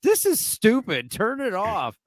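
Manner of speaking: high, slow bored complaint; annoyed friend. Retold or imitated. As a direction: whine like a fed-up viewer. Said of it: "and she was like".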